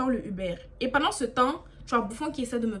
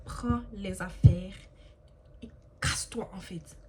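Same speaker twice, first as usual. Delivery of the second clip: fading order; 3 semitones lower, slower than usual. Retold or imitated.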